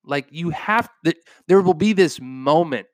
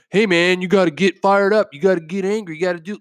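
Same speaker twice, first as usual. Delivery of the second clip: lightly hammed-up pep talk, a bit higher; mock soapbox preacher; 4 semitones higher, faster than usual. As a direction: play the preachy motivator telling them off. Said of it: "sitting up here on my soapbox telling you".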